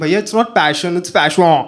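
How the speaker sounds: mock snobbish Karan Johar type correcting pronunciation; a prissy fixer of words; posh corrector. Karan Johar crowd correcting someone's pronunciation, mock snobbish. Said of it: "pronunciation ठीक करते हैं कि".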